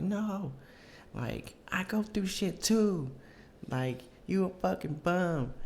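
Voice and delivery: high, slow mocking girlfriend voice; drunk ex impression. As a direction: imitate a drunk ex dragging out insults. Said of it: "she definitely was fucking drunk".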